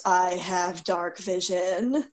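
slow, eerie haunting voice; low haunting voice. Acted. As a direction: draw it out slowly like a ghost. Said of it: "I say in a haunting voice".

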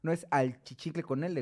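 "al chichincle" with an L sound before chichincle; wrong form al chichincle. Shown as a demonstration. Correcting a friend's wrong form, al chichincle with the L. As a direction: say "al chichincle" as two words, al then chichincle. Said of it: "está mal pronunciado porque es achichincle".

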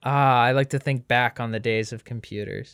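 hammed-up fond reminiscence; mock nostalgia. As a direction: reminisce like an old sage.

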